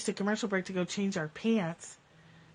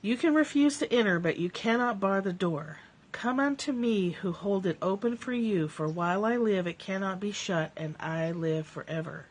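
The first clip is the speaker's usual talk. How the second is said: scripture reading. Acted. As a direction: read it like a sacred text. Reading a scripture passage aloud.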